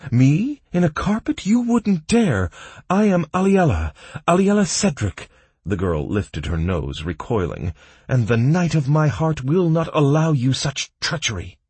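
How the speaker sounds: high, loud indignant lady; haughty noble girl. A narrator's reading. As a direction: scoff like a spoiled aristocrat. Aliella indignant, proud.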